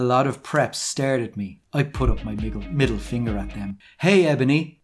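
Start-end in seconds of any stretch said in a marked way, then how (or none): 4.0-4.8 mild mock shout, a touch higher and louder; half-hearted call across a distance; shouted greeting. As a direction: call out lightly to Ebony. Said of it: "shouted a voice".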